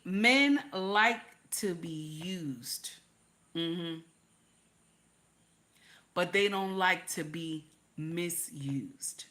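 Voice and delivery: slow unvoiced whisper; hushed slow secret. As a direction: lean in and whisper it slowly. Whispered advice to listeners.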